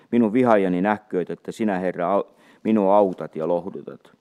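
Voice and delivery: measured, solemn reading of a psalm; scripture reading. Acted. Reads Psalm 86 aloud. (juhlallinen psalmin luenta)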